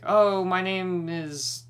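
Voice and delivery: sing-song mock politeness; mock friendly introduction. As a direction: imitate her chirpy intro. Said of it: "she's like".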